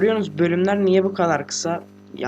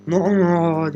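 loud uncle imitation; 4 dB louder than usual. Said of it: "Dayı gibi böyle".

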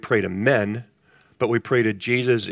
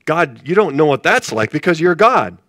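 louder complaint; 4 semitones higher, 6 dB louder than usual. Retold or imitated. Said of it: "You say".

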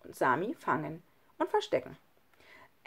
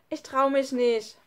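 put-on higher, daunted child's voice; timid protest; 6 semitones higher, 5 dB louder than usual. A narrator's reading. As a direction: balk like a nervous child. Frightened child in story dialogue. (verzagte, höhere Kinderstimme)

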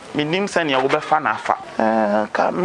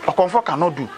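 high-pitched, indignant comeback; indignant challenge; 5 semitones higher than usual. Acted. Challenging a doubter about pastors, indignant challenge.

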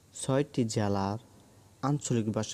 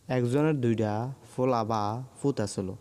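Comilla dialect. Shown as a demonstration. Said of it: "Comilla অঞ্চলের আঞ্চলিক ভাষা হলো".

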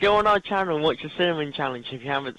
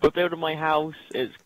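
a light squeaky character voice; Little Nicky voice; 2 semitones higher than usual. Acted. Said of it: "doing an impression of Little Nicky".

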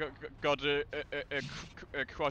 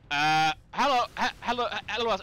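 loud, raised hello to get his attention; calling out; 6 semitones higher, 6 dB louder than usual. Real, not acted. Player calls out to a teammate, loud and raised. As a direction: hail a teammate who is blocking the shot.

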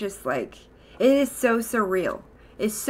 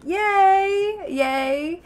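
little cheer; 10 semitones higher than usual. Real, not acted. Cheering her own good news.

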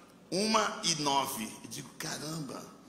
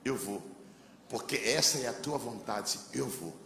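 quiet prayer; 4 semitones lower, 5 dB quieter than usual. Retold or imitated. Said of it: "e eu disse assim".

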